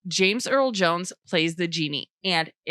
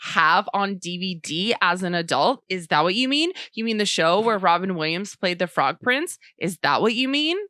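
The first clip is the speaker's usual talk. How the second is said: mock sarcastic disbelief; 2 semitones higher, 3 dB louder than usual. Co-host teasing her partner about the show, sarcastic. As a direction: fake innocent questions, building indignation.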